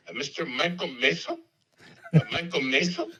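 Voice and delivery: put-on Chicago accent, puzzled query. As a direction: imitate a Chicago phone answerer mishearing a name. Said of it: "I'm doing my best Chicago accent".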